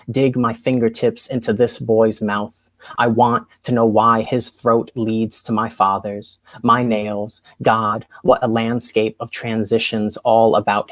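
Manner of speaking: measured spoken word poem; poetry reading. Acted. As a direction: deliver it like a slam poet. Rereads poem Out after freeze.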